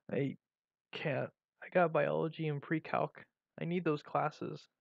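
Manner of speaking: soft, halting protest; muttering. A narrator's reading. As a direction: mutter it with pauses, keeping the volume down. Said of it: "I muttered".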